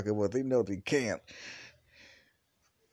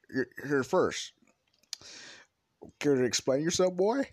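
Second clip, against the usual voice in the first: mock angry interrogation; 6 semitones higher, 4 dB louder than usual. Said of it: "fuming with anger and rage".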